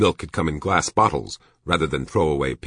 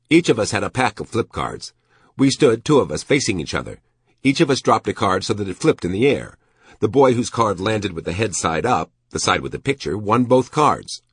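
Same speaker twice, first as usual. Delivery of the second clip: raised, emphatic storytelling as a character; reminiscing shopkeeper; 5 semitones higher, 4 dB louder than usual. A narrator's reading. Shopkeeper explaining how boys flipped cards, animated and higher. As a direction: lay out the rules keenly.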